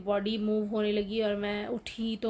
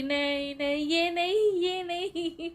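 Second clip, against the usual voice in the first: higher, louder panicked "no, not this" as if reliving it; mock scream of terror, raised high and loud; retold terrified cry; 7 semitones higher, 4 dB louder, slower than usual. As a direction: re-enact the frightened scream, pitch climbing. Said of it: "तो मैं चिल्लाने लगी".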